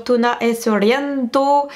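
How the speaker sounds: clumsy stab at an Italian accent; amateur Italian pronunciation; bad Italian accent. Real, not acted. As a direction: say the song title in a rotten Italian accent. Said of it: "mon accent italien très très pourri".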